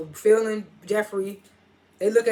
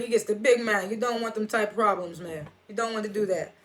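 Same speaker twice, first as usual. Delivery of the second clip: put-on a British accent that drifts into Jamaican; lightly voiced British bodyguard warning, sliding Jamaican; attempted British accent. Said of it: "that accent I just did sounded hella Jamaican".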